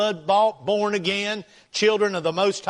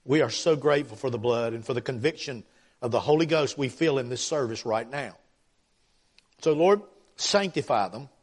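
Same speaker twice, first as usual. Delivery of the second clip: earnest, lower-pitched church prayer; public prayer; 4 semitones lower than usual. Real, not acted. Preacher praying to God for the congregation, earnest prayer.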